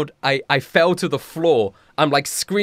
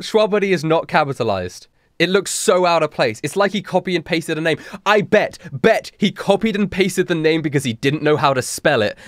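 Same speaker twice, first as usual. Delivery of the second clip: usual speaking voice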